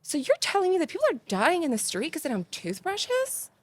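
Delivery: mock scream. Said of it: "And then I start screaming".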